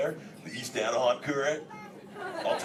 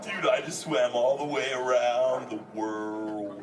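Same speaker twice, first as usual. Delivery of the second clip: trying not to smile; 2 semitones lower than usual. Acted. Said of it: "I can't even keep a straight face".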